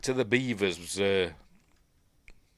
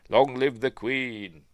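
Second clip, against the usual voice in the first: proclamation; 3 semitones higher, 5 dB louder, slower than usual. Acted. Signing off the warrant he reads.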